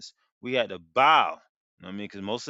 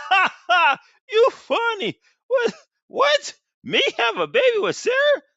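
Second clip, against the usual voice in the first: high, loud incredulous laughing shout; mocking laugh; 4 dB louder than usual. Abraham laughing at God's promise, high disbelieving shout. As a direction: laugh it off as if the idea is absurd. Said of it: "fell upon his face and laughed".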